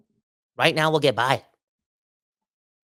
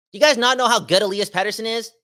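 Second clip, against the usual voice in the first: higher and louder, incredulous; exasperated outburst; 8 semitones higher, 7 dB louder than usual. Real, not acted. Host challenging doubting fans, exasperated and loud. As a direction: demand it of the fans in disbelief. Exasperated rhetorical question to listeners.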